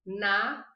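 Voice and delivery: Sa-na-horia split into syllables, s at the start, h silent; sa, na, oria, each syllable said apart. Shown as a demonstration. Teacher breaks the word down for students, syllable by syllable. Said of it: "o Z tem som de S".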